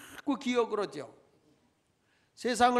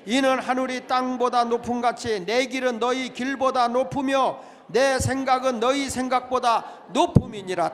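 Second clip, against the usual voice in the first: loud scripture recitation; congregational reading; 5 semitones higher, 10 dB louder than usual. Shown as a demonstration. Pastor leading the church through Isaiah, recited aloud. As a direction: read the verse aloud with the church. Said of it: "같이 읽어봅니다. 시작".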